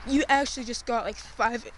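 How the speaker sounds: shivering from the cold; cold and shivering while talking. Real, not acted. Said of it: "I'm sorry, I'm shivering".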